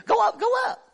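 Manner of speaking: high mocking sing-song. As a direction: mimic the false prophets with scorn. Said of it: "That's what they all been telling".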